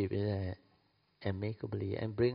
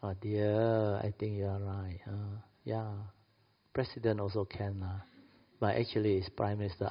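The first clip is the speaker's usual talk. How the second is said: gentle wife; 3 dB quieter than usual. Retold or imitated. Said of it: "Follow the son or the children".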